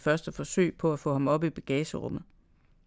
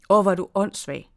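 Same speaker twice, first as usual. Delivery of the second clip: angry scolding; 2 semitones higher, 6 dB louder than usual. Acted. She hits the prankster.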